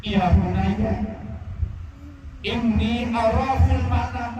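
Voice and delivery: high, pleading voice of a grieving father; Ibrahim to his son. Acted. Father tells his son of the dream, high and pleading. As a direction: cry it out as the father torn by God's command.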